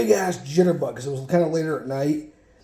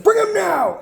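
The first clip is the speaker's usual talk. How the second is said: high, forceful mock yell; mother's command; 14 semitones higher, 4 dB louder than usual. Mother overruling dad about the hospital, imitated high-pitched yell. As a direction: imitate a mom's sharp order, voice shooting way up.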